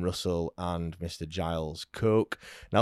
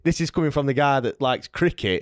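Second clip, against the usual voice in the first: laughing outburst; 4 semitones higher, 3 dB louder than usual. Real, not acted. Mock outrage at cricket fan.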